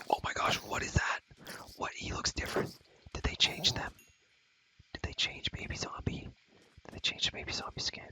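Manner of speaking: forceful, astonished stage whisper; startled whisper. Real, not acted. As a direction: whisper urgently in surprise at a strange sight. Startled by changed zombie in game.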